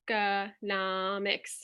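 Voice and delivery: "economics" drawn out slowly, syllable by syllable; teacher modelling syllables; slow demo word. Shown as a demonstration. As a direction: stretch out "economics" in beats. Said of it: "I'll do the first one".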